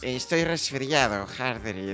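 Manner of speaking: slow, lightly put-on voice; a drawn-out excuse in a disguised voice; tío Paco. Impostor blaming a cold to Hardred, slow put-on voice. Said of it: "¿qué te ha pasado en la voz?".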